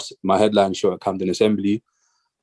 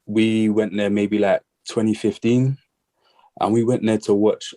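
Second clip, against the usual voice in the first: slightly breathless, slow; out of breath. Real, not acted. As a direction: talk a little short of breath. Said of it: "I'm a bit out of breath right now".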